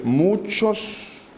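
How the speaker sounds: Muchos drawn out and pitched high; stress on muchos. Acted. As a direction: lean hard on Muchos, held long. Preacher stresses repeated word.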